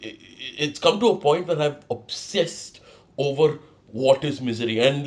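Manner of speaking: normal talking voice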